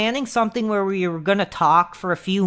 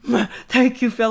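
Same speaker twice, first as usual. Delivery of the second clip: kissy raised thank-you; mock smooches; 5 semitones higher than usual. Creepy fan kissing webcam for Phil, mock smooches. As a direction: blow kisses through the webcam. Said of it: "kissing the webcam".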